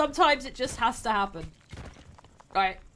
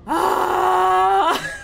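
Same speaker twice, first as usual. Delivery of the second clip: long, loud "aah" wail; despairing scream; 4 semitones higher, 6 dB louder than usual. Real, not acted. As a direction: scream out the defeat, drawn out. Cries out as game is lost.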